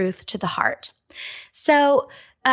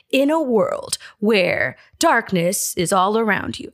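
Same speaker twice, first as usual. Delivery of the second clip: dramatic trailer narrator. Retold or imitated. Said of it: "hear it being read in that really dramatic narrator voice".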